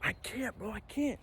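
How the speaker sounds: imitating a high, panicky friend; freaking out. Stuck friend pleading on the cliff, freaking out. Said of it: "he's freaking out".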